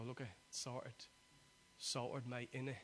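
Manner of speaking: lightly put-on London accent; a touch of casual Londoner. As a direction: toss it off in mock London slang. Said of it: "in the London accent".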